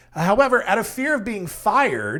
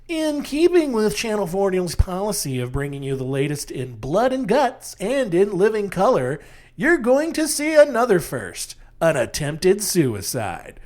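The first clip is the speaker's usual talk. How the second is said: newscaster voice; 2 semitones higher than usual. Pretend. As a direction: read it like a polished evening newscaster. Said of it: "I'll try to do, like, a nice, like, newscaster voice".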